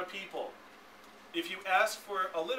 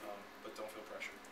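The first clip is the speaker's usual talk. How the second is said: much softer and lower, mock nervous date request; timid asker; 5 semitones lower, 8 dB quieter than usual. Trainer acting out a nervous date request, soft and hesitant. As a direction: stammer through it like a shy guy asking. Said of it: "If I was like".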